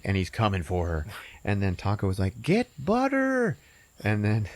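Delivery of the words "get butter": odd character voice. Retold or imitated. Taco voice, cartoon line.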